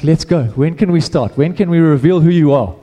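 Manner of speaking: a touch of pumped-up eagerness; amped. Retold or imitated. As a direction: lightly act out an impatient, amped follower. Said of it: "He's getting amped".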